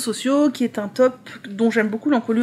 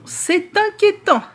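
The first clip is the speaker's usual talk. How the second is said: much higher, slow mock alarm; mock worried; 9 semitones higher, slower than usual. Shown as a demonstration. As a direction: stretch it out, high and theatrical. Repeats the remark, second take dramatised. (faussement inquiet, aigu et lent)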